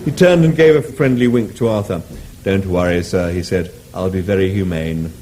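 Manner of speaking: courteous cow. Acted. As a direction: reassure the diner politely.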